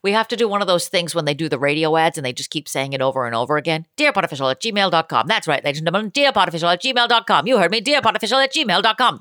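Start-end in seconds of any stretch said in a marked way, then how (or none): 4.0-9.2 auctioneer voice. Shown as a demonstration. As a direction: rattle it off like a radio ad auctioneer. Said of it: "That's my auctioneer voice".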